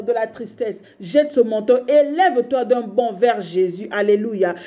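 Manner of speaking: hammering litany, each line called out; preaching at full force. Acted. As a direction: cast off every burden, line by line. Prêche, jette le manteau. (litanie prêchée avec ferveur)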